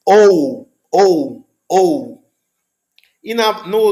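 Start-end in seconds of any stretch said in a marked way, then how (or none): 0.0-2.2 "ou" with an English glide, the way English speakers say it; English-style "ou". Shown as a demonstration. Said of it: "quem fala inglês às vezes vai dizer ou".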